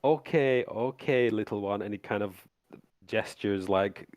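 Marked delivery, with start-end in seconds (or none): 0.0-1.8 condescending. Acted. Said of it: "he laughs and he says".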